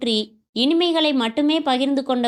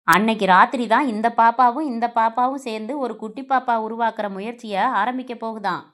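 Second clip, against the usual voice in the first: louder, teasing husband voice; husband teasing his shy bride, playful and louder; 4 dB louder than usual. Acted. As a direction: tease her with a grin in the voice. Husband teasing bride about wedding night.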